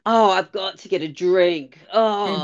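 lightly voiced over-dramatic sigh; a hint of a dramatic reality-show diva; dramatic Alyssa. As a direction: mimic her theatrical entrance, a touch overdone. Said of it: "she's so dramatic".

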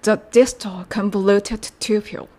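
"The distal convoluted tubule" said slowly and deliberately; careful classroom drill of "The distal convoluted tubule"; slow practice model. Shown as a demonstration. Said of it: "練習しましょう".

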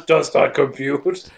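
slow mock robot voice; robotic computer. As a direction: drag it like a computer. Computer voice repeated.

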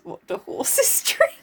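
high airy dim voice. Retold or imitated. Mocking a dim question.

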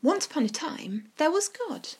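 gentle fireside storytelling. Acted. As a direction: tell it like a bedtime tale. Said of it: "I like your storytelling voice".

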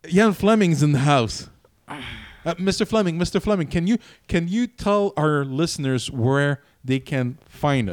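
loud, high game-show host introduction; excited host welcome. Acted. Host hyping the arrival of Ian Fleming, loud and excited. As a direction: boom it out like announcing a star guest.

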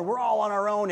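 loud, fast mock rant of a drunk; retold angry rant. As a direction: fire it off like an angry man in the street. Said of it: "the guy was swearing and angry".

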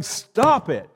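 a king who has run out of patience, yelling; fed-up king. Pretend. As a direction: blast them out of the courtyard. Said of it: "I'm King Solomon. I'm going".

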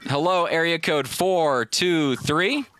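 very slow, stretched hello to a silent line; host coaxing a silent caller on the line; calling out. Real, not acted. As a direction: drag it out, waiting for an answer. Caller not answering, host calls again.

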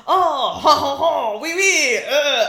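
loud, high, hammed-up delighted greeting; mock belly laugh bursting into gushing French; over-excited mock Francophile. Alien gushing over meeting a Frenchman, hammed-up delight.

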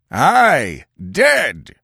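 high, loud crowd cry; bloodthirsty shout. Acted. Five hundred warriors assure Conan, shouting. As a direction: confirm it like a vengeful mob. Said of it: "Five hundred bloodthirsty voices".

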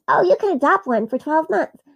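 a hint of a bright mother; lightly voiced eager mom; cheerful mom. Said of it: "she was like".

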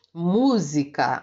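música slowed, mú strongest; slow teacher's demo of música; stress on MÚ. Shown as a demonstration. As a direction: stretch música, leaning on the first syllable. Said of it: "a sílaba acentuada é a antepenúltima".

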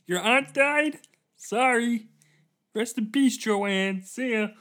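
breezy as if nothing's wrong at a funeral; cheery oblivious passerby. Pretend. Stranger offering groceries to mourners, high chirpy cheer.

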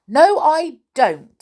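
high, loud doll's retort; storybook defiance; defiant refusal. A narrator's reading. Naughty doll defiantly refuses.

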